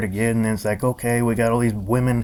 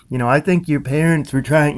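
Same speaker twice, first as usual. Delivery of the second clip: mock parental scolding; 5 semitones higher, 4 dB louder than usual. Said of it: "he's acting like my parent".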